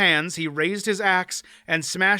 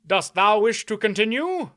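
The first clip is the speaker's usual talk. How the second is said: a knight's courtly concern, raised and full; solicitous knight; 6 semitones higher, 3 dB louder than usual. A narrator's reading. Knight asks the fallen baron if he is unwell, solicitous. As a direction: ask after the fallen baron with mock courtesy.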